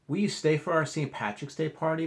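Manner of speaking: high, bright asking; hopeful invitation. Acted. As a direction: invite him eagerly. Teacher invites guest warmly.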